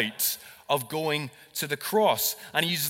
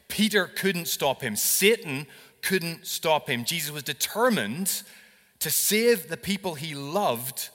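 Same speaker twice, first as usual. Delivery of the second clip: louder, rising preacher's climax; preaching build; 3 dB louder than usual. Acted. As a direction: drive it home to the congregation.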